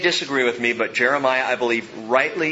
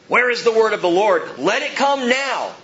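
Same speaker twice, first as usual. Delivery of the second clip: higher-pitched taunting demand, slowing at the end; mocking; 5 semitones higher, 3 dB louder than usual. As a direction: imitate scoffers demanding proof. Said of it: "Okay, they're mocking".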